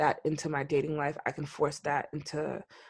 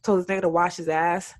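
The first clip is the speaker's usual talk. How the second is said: anxious inner voice; 11 semitones higher, 4 dB louder than usual. Retold or imitated. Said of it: "I'm like".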